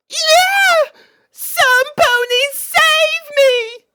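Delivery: very high, loud damsel's cry for help; yelled. Acted. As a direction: shriek for rescue like a damsel. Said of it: "she yelled".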